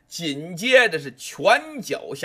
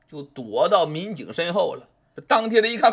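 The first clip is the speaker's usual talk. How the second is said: usual speaking voice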